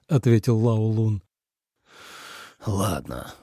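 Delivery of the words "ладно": sighing. A narrator's reading. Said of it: "вздохнул Ли Цзэ".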